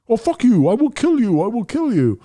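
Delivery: put-on Middle Eastern accent, high and insistent. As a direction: mimic an irate caller's Middle Eastern accent. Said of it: "Middle Eastern accent".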